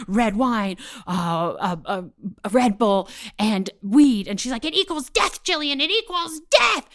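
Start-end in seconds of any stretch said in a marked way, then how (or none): 4.6-6.9 high, hammed-up alarm; mother screaming. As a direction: pronounce doom like a panicked mom, stretching the end. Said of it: "she is screaming at us from that room".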